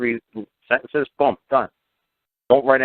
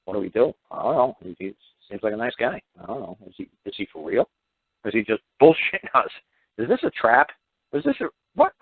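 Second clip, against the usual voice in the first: confused agents. Retold or imitated. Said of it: "They're like".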